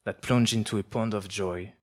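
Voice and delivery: measured, expressive prose reading; literary reading. Acted. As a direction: read it like a live book reading. Author reads own prose aloud.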